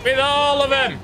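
high-pitched whining complainer; complaining put-on voice.

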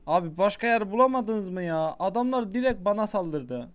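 indignant gamer outburst; exasperated complaint. Real, not acted. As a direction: protest loudly at being ambushed. Complains at being attacked in game.

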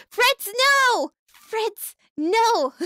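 high, loud playful cry of dismay; hammed-up outrage; mock alarmed yell. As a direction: yelp at the viewer in fake panic. Chat member joins rival faction.

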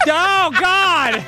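high cry of frustration; dismayed outcry. Real, not acted. Player reacting to an in-game disaster, dismayed.

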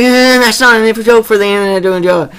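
high, loud mock scolding; hammed-up high scolding; imitating Markiplier. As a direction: shout the warning up high. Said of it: "He's like".

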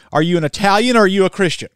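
rapid challenge, OR pressed; fast pointed question. Retold or imitated. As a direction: fire the question back at her. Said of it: "I said".

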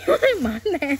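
laughing. Real, not acted. Laughs while pounding mango.

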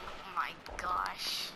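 slow, nervous whisper. Real, not acted. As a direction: barely breathe the words. Nervous, hands sweating.

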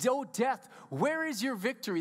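mocking death, lifted on "Oh, death"; gloating sarcastic jab at death; sarcastic taunt. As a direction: taunt death like a beaten foe. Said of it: "That's like sarcastic making fun of death".

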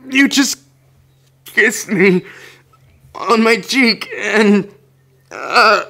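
high and loud, flustered and stammering; blurting it out, too excited to finish; flustered squeal. Acted. To the listener who kissed her cheek, high loud flustered stammer.

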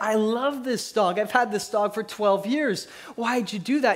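a hint of a frantic husband; mildly voiced husband upset about his dog. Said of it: "becoming unhinged".

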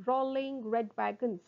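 measured, careful first take; slow tongue twister. Shown as a demonstration. Teacher models a twister for students, unhurried. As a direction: articulate each word evenly. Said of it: "first try saying them slowly".

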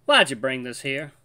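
lightly voiced grandpa asking. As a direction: redo it as the old grandpa. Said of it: "I'm messing up my voices. Hold up".

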